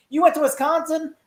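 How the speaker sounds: very high-pitched astonished question; mock incredulity. He hears she went to Wisconsin, high mock disbelief. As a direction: imitate someone baffled, voice shooting up.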